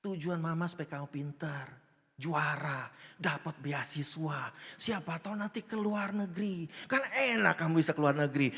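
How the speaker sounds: gentle, coaxing mother; ibu membujuk. Acted. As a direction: patiently paint a hopeful future for a child. Mother gently explaining her goal. (ibu menasihati dengan lembut)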